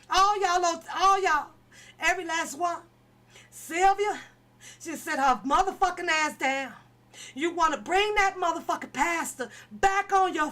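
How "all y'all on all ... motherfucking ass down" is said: jab at every one of them; angry shout. Real, not acted. Furious rant at the group.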